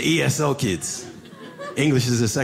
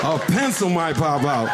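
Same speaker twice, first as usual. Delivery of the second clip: savouring it; slower than usual. Real, not acted. Teacher savouring the kid's line.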